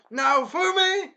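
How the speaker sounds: long, high mock battle cry of the name; hammed-up shouted call; yelled name. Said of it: "He was like".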